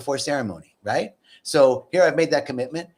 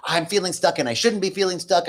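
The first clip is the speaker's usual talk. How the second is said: higher-pitched, mildly complaining; resisting; 4 semitones higher than usual. Acted. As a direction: voice mild resistance to the feeling. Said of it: "I don't like feeling stuck".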